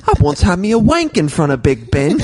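hammed-up British confession; mock British accent. Cohost improvising London tale, mock British accent. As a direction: boast it as a daft Brit. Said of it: "do a British accent".

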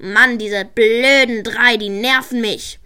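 a sore loser venting; angry. Acted. Karl fuming over the election, mildly angry. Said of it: "Karl war wütend".

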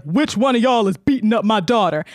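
lightly voiced confronting father; mock-stern dad calling out the culprit; imitated angry dad. Dad confronts kids on the school bus, mock stern.

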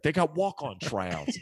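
mock Chicago-accented buddy voice. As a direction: quote the friend in Chicago accent. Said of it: "He's got this accent".

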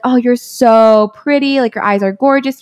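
mock-gushing pickup delivery; gushing compliments. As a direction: lay the praise on with a stretched "so". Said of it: "overflowing with the compliments".

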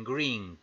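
"green" with a long ee sound; English green. Shown as a demonstration. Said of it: "La doble E suele sonar I".

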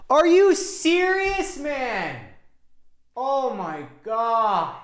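very high, drawn-out, exaggerated incredulity; mock disbelief. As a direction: stretch it out like it's absurd. Mock disbelief at clothes shopping.

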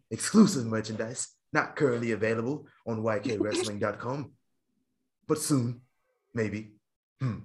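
lightly affected formal announcer; grand show plugs. Acted. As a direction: read the plugs with measured ceremony, pausing between phrases. Host reads show plugs in put-on formal style.

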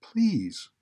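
high-pitched imploring; pleading. A narrator's reading. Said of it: "she pleaded for the first time".

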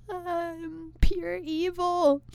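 slow, high mock evil line; hammed-up self-accusing villain. After killing a bug, mock evil confession. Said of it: "So I'm just like".

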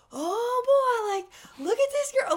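put-on high, loud jeering boy voice; hammed-up thirteen-year-old heckling; mocking teen boy yell. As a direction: mimic a bratty kid catcalling. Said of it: "starts screaming".

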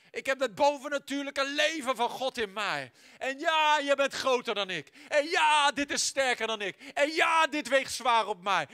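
a tiny seed that refuses to stay down, yelling defiantly; seed shouting back. Acted. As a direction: roar back against the soil. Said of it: "Dat zaadje schreeuwt terug tegen die grond".

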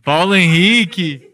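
slow, loud, excited name call; hyped giveaway announcement. Real, not acted.

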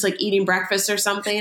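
ordinary talk, nothing marked

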